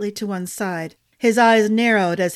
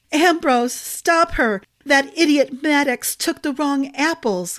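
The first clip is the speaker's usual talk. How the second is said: high, loud agitated cry; 5 semitones higher, 4 dB louder than usual. A narrator's reading. Fairy panicking at Ambrose, high loud cry. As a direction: Glenna wrings her hands and cries out, high and loud. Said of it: "Glenna cried, wringing her hands".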